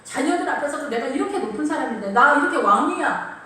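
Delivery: self-important husband. Acted. Husband boasting to his wife and children, mock self-important. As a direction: puff yourself up as a mock king of the house. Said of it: "남편이 얘기하는 거야".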